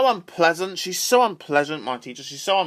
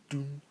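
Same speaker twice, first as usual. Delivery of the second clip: weird humming noise; 15 dB quieter than usual. Shown as a demonstration. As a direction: demo the odd hum from class. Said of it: "I was making a weird noise like this".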